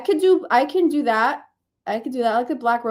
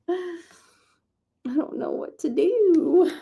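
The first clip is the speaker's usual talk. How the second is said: slow drawn-out laugh; 8 semitones higher, much slower than usual. Real, not acted.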